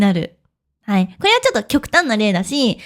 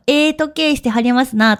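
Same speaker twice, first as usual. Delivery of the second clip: Kyoto dialect. Shown as a demonstration. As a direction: try a gentle Kyoto-ben compliment, not quite sure of the tune. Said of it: "イントネーション間違ってるかもしれない。 私関西弁喋れないから". (京都弁をまねた控えめな言い方)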